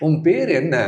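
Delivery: "Um per enna" sung high and loud, last syllable stretched; odd, untranslated tone. Shown as a demonstration. Writer showing how dubbing goes wrong, "Um per enna" in an odd high lilt. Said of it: "If I just ask like this".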